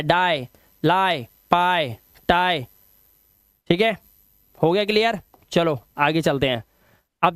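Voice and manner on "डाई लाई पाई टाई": slow डाई, लाई, पाई, टाई with long ai; vowel demonstration. Shown as a demonstration. Teacher drills IE endings, डाई, लाई slow and separate. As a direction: draw out the ai in डाई and टाई, pausing between. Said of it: "आई से पढ़ना है।".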